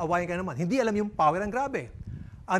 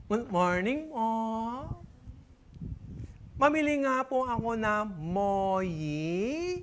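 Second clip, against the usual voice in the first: speech-impaired customer; 4 dB quieter, much slower than usual. Acted. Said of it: "Merong isang ngongo".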